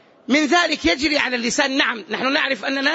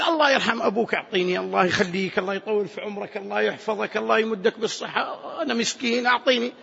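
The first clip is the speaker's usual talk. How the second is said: lightly voiced beggar, lower and softer; humble beggar; 3 semitones lower, 4 dB quieter than usual. Poor man flattering someone for alms, meek mild pleading. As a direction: plead meekly with a run of blessings. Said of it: "لما يأتي المسكين ويتذلل".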